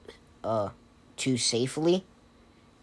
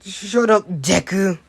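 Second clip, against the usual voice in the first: high, loud acted yell; wounded, high-pitched shout; tearful outburst; 7 semitones higher, 8 dB louder, slower than usual. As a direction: yell back through mock sniffles. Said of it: "is sniffling tears".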